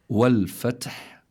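والفتح said slowly, breath flowing after ta and ha; hams. Shown as a demonstration. Teacher models the verse's last word, slow with breathy hams. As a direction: let air run out with the ت and ح of والفتح. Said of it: "فلا بد من جريان النفس".

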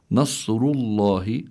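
slow, drawn-out نصر الله with heavy ر and heavy ل; tafkhim recitation. Shown as a demonstration. Teacher showing the tajweed rule for listeners, slow tafkhim recitation. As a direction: recite نصر الله slowly, full-mouthed emphatic ر. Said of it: "حكمها التفخيم".

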